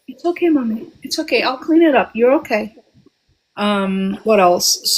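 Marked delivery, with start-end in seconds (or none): 0.1-2.8 higher, gentle comforting to her little one. Real, not acted. Soothing her child off-mic.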